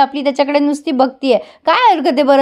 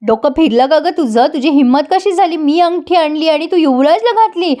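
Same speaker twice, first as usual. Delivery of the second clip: angry scolding; 5 semitones higher than usual. Retold or imitated. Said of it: "खूप संतापते".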